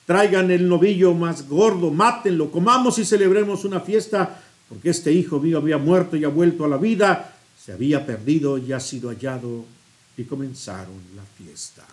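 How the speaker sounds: solemn scripture reading from the pulpit; Gospel reading. Acted. Preacher reads the prodigal son Gospel to the congregation, solemnly. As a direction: read the Gospel aloud to the congregation.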